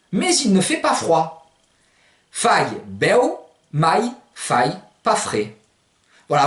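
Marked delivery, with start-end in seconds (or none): 2.3-5.5 FAI BEU, MAI FAI PAS FRAIS with fai and mai rhyming with "aïe"; spaced-out fai beu, mai fai pas frais, beu as "bè-ou"; Provençal pronunciation. Shown as a demonstration. Teacher giving an example sentence, Provençal pronunciation. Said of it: "Alors, vous pouvez dire".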